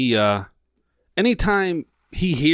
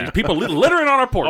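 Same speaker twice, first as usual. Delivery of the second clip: grumpy dog voice; 10 semitones higher than usual. Retold or imitated. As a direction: play the dog complaining about people on the porch. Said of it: "She'd be like".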